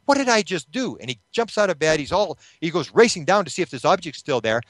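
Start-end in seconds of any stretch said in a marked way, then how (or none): 0.0-1.0 mock alarmed realisation. Acted sudden alarmed realisation in bed.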